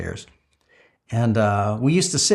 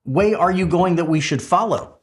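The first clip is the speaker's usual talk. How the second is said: confused Thomas; 4 semitones higher than usual. Acted. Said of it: "and Thomas says".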